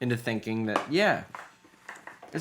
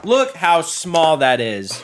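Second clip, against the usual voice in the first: cutesy awe; 6 semitones higher, 8 dB louder, much slower than usual. Real, not acted. Cooing at tiny cute chips.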